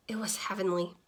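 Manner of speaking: soft, whispered, dreamy; a relieved fish whispering his delight; blissful whisper. Acted. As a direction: breathe it out in a content whisper. Fish savours being alone at last.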